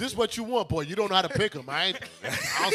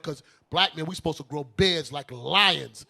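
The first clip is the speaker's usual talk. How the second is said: slow, drawn-out street swagger; talking black; 3 semitones lower, slower than usual. Retold or imitated. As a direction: lay the swagger on slowly. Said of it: "I started talking black".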